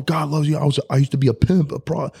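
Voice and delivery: retelling the chapel preacher, hammed-up sermon. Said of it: "preaching his heart out".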